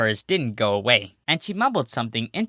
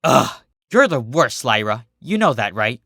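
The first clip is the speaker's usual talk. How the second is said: annoyed glare; 5 dB louder than usual. Acted. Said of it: "Minuet said as he glared".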